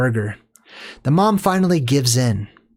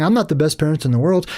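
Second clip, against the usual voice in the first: mocking excuse; faster than usual. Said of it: "Don't just walk around saying".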